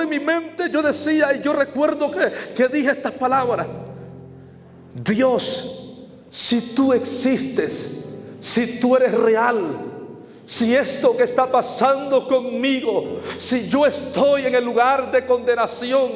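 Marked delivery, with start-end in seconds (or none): 4.9-16.1 slow, drawn-out plea to God; retold desperate prayer. Preacher reliving his inner plea to God for one chance, desperate. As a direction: plead haltingly, phrase by phrase, as in a remembered prayer. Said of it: "empiezo a desesperarme en mi interior".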